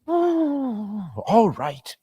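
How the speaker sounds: high, reluctant giving in; agree, but make it plain you mind; grudging. Acted. Missus Cratchit reluctantly agreeing to drink to Scrooge.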